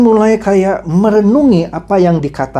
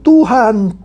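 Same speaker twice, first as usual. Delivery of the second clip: raised, acted invocation; lightly dramatised call to God; crying out; 4 semitones higher than usual. Scripture reader voices believers calling on the Lord, crying out. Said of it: "yang berseru kepadaku".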